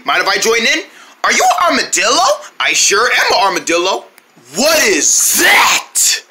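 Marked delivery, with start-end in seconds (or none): 4.6-6.2 surprised question. Acted. Surprised by new snack.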